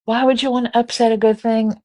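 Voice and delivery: high, loud protesting husband. Retold or imitated. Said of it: "He's like".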